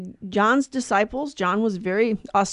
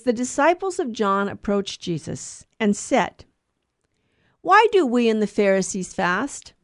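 gospel reading. Acted. Reads the day's gospel aloud.

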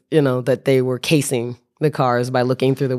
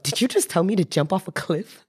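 mock melodramatic outrage, rising higher; 5 semitones higher than usual. Narrator to Bob about the cliff, mock melodramatic panic. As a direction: ham up the panic, voice climbing. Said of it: "my melodramatic self".

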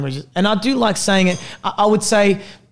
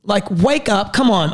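raised pitch, fast and insistent; passionate rant; 4 semitones higher than usual. Real, not acted. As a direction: push hard, fired up. Heated rant about names.

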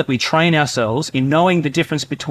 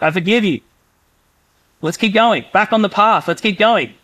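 reassuring Father; 5 semitones higher than usual. Acted. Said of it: "That voice of reassurance".

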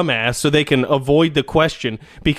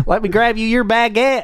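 mock French; 8 semitones higher than usual.

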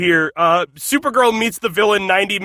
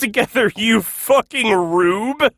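raised, contemptuous rant; mocking rant; 3 semitones higher than usual. Real, not acted. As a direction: tear into the character. Ranting at the character.

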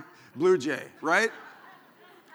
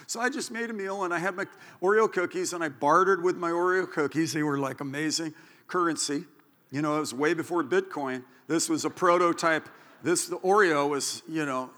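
normal talking voice

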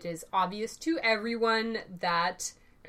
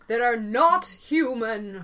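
dramatic vintage radio announcer; mild old radio serial drama, gasp included; old-timey radio voice; 4 dB louder, slower than usual. Pretend. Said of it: "that was my old-timey radio voice".

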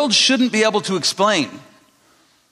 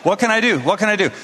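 higher, urgent mock panic; insistent, flustered demo of panic; panicked, like meaning it; 4 semitones higher, faster than usual. Shown as a demonstration. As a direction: demonstrate a frantic plea like you mean it. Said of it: "Shake your fingers like you mean it".

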